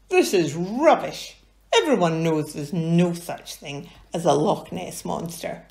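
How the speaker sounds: mildly dismissive character voice; lightly voiced Rupert.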